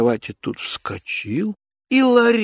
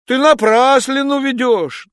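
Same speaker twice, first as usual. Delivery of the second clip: loud, higher cry of protest; Ivan shouting; 11 semitones higher, 6 dB louder than usual. Acted. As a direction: shout back the denial. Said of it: "закричал он".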